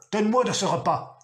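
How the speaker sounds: ordre plus aigu et plus fort; comme pierraille fracassée. A narrator's reading. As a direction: exige le repas d'un ton brisant. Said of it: "comme pierraille fracassée sous outil". (le père étrangle son fils en exigeant le repas, menaçant)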